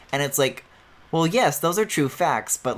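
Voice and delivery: usual speaking voice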